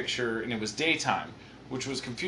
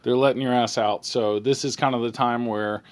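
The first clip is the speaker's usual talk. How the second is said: officious cop reading the interview details into the recording, louder; police officer; 3 dB louder than usual. Acted. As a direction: play the cop stating it all for the record. Officer continues.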